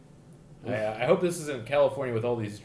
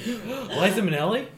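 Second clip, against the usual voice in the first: surprised gasp; 9 semitones higher than usual. Acted. Gasps at new arrival.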